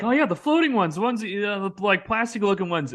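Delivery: very high, strained voice near laughter; cracking up. Retold or imitated. Guest breaking up while explaining the fake turtles, very high strained voice. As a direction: barely hold it together.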